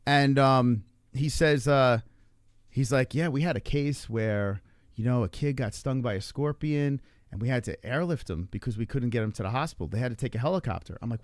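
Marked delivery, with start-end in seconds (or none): 3.1-11.0 low-key, unhurried anecdote, lightly acted; imitated calm responder. Responder telling a worried parent a story, mildly mock calm. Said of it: "He's trying to stay all calm".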